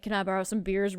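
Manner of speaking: understated creepy neighbour asking a favour. Retold or imitated. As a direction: quote it softly with a touch of creepiness. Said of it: "real creepily".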